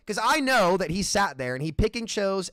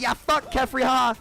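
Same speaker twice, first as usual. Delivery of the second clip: much higher, jeering crowd voice; mocking pile-on crowd; 8 semitones higher, 6 dB louder than usual. Streamer mimicking viewers piling on Kefri, jeering. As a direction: sneer it like a mob piling on. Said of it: "people are gonna jump on the video".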